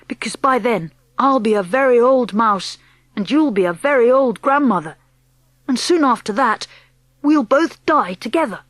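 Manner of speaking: lightly voiced eager boy; young boy. Boy character speaks.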